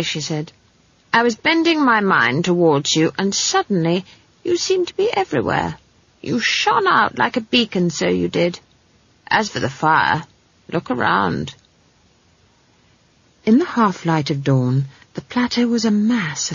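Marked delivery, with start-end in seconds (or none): 1.1-11.5 a hint of an animated, knowing granny; old witch lightly voiced, emphatic; lightly voiced wise old witch. Granny explains how she found the girl, lightly knowing.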